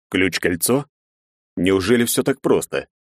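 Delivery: «Ключ-кольцо?» с недоумённым подъёмом в конце; переспроси с недоверием; удивлённо. Acted. (удивлённый вопрос)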